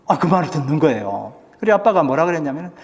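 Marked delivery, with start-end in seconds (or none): none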